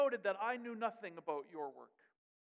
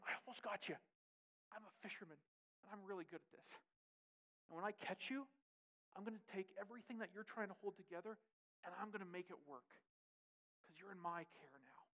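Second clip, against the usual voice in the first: intimate hush; 3 semitones lower, 11 dB quieter than usual. Acted. Jesus voiced, intimate promise.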